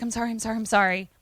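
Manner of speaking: mildly panicked, repeated apology; freaked-out apology. Retold or imitated. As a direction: act out a flustered, hurried apology. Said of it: "she's really freaked out".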